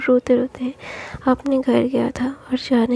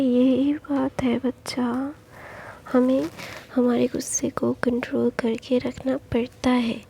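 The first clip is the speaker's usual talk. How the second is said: soothing whisper; 5 dB quieter than usual. Acted. Father soothing son softly.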